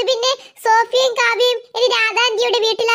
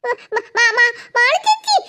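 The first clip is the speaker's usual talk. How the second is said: scared stammer; 2 semitones higher, much slower than usual. Acted. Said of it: "നീ എന്തിനാ ഇങ്ങനെ പേടിക്കുന്നത്?".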